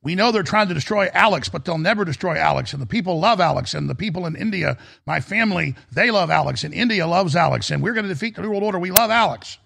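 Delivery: lightly voiced Indian shopkeeper; light Indian accent. Indian shopkeeper praising Alex, hint of an Indian accent. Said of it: "I can't really do an Indian accent".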